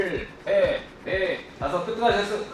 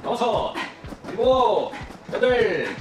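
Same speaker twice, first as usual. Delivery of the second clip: barking gym coach. Acted. Coach counting out sprawl reps.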